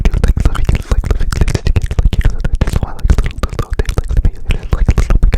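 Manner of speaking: muffled cupped hand whisper; fishbowl whisper. Shown as a demonstration. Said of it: "I like to do this trigger".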